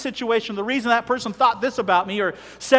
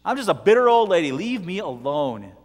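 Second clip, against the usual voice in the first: put-on bitter old lady; 7 dB louder than usual. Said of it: "and she goes".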